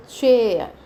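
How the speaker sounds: चेयर with a clear च ch sound at the start; ch as in chair. Shown as a demonstration. Teacher modelling चेयर for students, crisp च sound. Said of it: "सीएच is pronounced as च".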